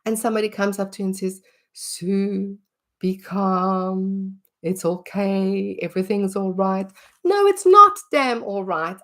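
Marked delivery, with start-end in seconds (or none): 1.7-6.9 slow, hushed placating voice; mock soothing calm. Someone soothing an angry person. 7.2-9.0 higher and louder, snapping back; angry retort. Pretend. Angry reply to being calmed.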